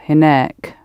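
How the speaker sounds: hinek with a clear k and weight on nek; stress on last syllable. Shown as a demonstration. Teacher explaining the added k sound, final syllable stressed. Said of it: "emphasizing the last syllable".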